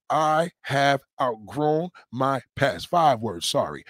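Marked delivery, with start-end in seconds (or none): 0.1-2.9 slow affirmation. Shown as a demonstration. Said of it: "Train yourself to say these four words".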